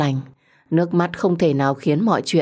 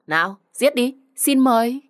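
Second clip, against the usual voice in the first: high-pitched mock invitation; scornful, challenging invitation; taunting dare; 7 semitones higher than usual. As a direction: goad the other to go ahead. Vi dares her to kill.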